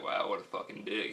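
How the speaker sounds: breathy whispered retold complaint; whispered aside. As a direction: whisper it like a private thought. Retold thought about the cop.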